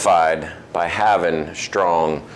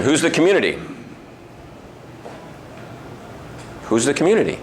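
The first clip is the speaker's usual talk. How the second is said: higher-pitched retold quiz question; quizzing the trainees; 6 semitones higher, 3 dB quieter, much faster than usual. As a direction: pose it like a trainer testing newcomers. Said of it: "I ask them".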